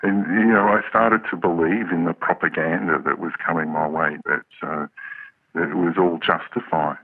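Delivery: electronically altered voice; disguised deep voice. Real, not acted. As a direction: voice masked for privacy. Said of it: "We've altered his voice".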